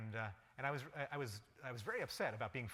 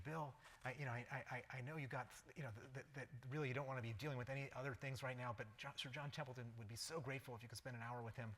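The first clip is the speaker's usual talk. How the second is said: fawning request; 5 dB quieter than usual. Retold or imitated. Colleague begging favour for Templeton.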